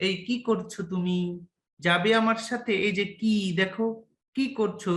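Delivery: gentle friendly invitation as a demo; light, kind demo question; soft gentle asking. Shown as a demonstration. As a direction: ask softly to show a soft sound. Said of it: "অঘোষটা বলে soft".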